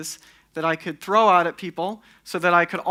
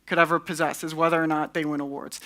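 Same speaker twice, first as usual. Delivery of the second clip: sarcastic. Real, not acted. Speaker mocking award-winning designers to an audience, sarcastic. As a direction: deliver it as sincere praise you don't believe. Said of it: "That's sarcasm".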